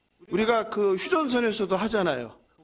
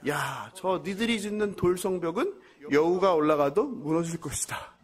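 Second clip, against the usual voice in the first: mocking taunt; 3 semitones lower than usual. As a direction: taunt them lightly, drawing out the last words. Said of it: "이렇게 조롱합니다". (가볍게 조롱하는 말투)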